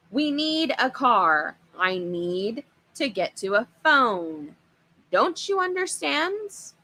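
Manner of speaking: slow, loud, rising to a high cry; exasperated demand. Acted. Father demanding a car from the horror, slow exasperated yell. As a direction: hammer it home, losing patience. Dad pleading angrily with monster.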